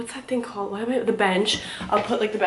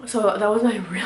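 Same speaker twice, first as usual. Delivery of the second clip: winded after the workout; out of breath. Real, not acted. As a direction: talk while still catching your breath. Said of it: "I'm, like, out of breath".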